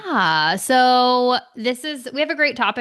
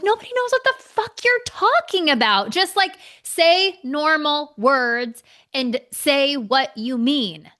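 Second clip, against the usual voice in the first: exasperated outburst; 5 semitones higher, slower than usual. Real, not acted. Exasperated rant about pretentious talk.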